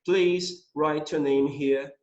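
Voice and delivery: slow, careful English reading; slow read-aloud. Shown as a demonstration. Teacher reading the sentence slowly. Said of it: "E a última frase".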